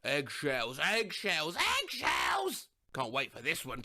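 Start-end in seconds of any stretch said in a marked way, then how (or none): 0.0-2.7 mild mock scream. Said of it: "is scream".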